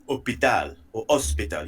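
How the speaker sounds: "hôpital or hospital" said French-style with no H; French H dropping. Shown as a demonstration. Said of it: "You don't pronounce the H".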